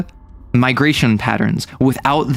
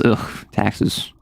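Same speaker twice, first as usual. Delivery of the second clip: disgusted groan; 5 semitones lower, 5 dB quieter, slower than usual. Real, not acted. Disgusted groan about taxes.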